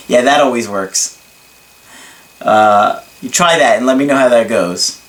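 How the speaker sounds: dry mock approval; deadpan sarcasm, tongue in cheek; sarcastic. Real, not acted. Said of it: "I'm being sarcastic".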